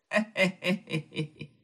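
soft, breathy heh-heh chuckle; a creepy lecher's quiet snicker; sly lecherous heh-heh, held back. Acted. Lecher circles the girl.

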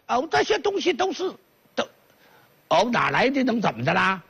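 southern vendor voice. Acted. Southern voice answering Xu Yuan.

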